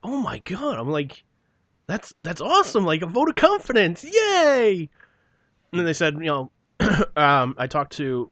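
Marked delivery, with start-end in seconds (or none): 0.0-4.9 high, louder fake gushing delight; sarcastic mock joy. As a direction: gush over it like it's the best news ever, sarcastically.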